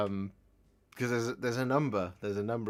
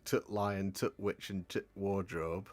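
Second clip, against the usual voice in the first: mock Yorkshire; 3 dB quieter, slower than usual. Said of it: "So people will say things like".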